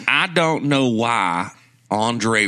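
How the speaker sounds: slow mock Southern hot take; Southern accent. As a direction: drag it out in a put-on Southern accent. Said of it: "in a Southern accent".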